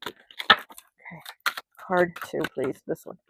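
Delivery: ordinary delivery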